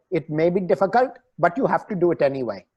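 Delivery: put-on quoting a saying in an Indian accent; light Indian accent, a bit fast. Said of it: "you keep on doing the Indian accent".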